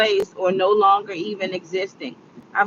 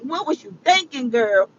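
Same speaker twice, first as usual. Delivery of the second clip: inner scolding voice; 5 semitones higher than usual. Retold or imitated. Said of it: "my brain was like".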